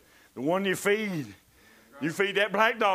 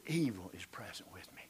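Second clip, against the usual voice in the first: softer and softer into a whisper; fading to whisper; 11 semitones lower, 11 dB quieter than usual. Acted. Preacher fading the verse into a whisper. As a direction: let the words die away.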